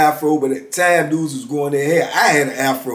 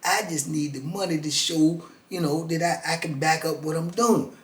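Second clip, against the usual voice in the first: hustler's pitch; 9 dB quieter than usual. Retold or imitated. Hustler pitches his scheme.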